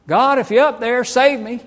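high, loud hammed-up cry to the sky; preacher mocking a careless prayer, shouted high; mock desperate prayer. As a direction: parody a half-hearted panic prayer.

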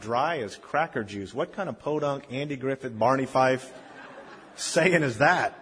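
slow, mildly mocking teenage scorn; retold scornful disbelief. Teenager privately scoffing at an older man's saying, mildly scornful. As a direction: draw out the mock disbelief. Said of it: "I got mad. I rolled my eyes".

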